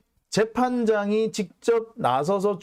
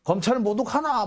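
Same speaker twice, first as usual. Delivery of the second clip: higher-pitched mock protest, lightly acted; retold indignant retort; 5 semitones higher than usual. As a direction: play the offended prosecutor, pitch lifted. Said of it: "검찰이 발끈하면서 뛰어나옵니다". (발끈한 검사를 살짝 흉내 내듯)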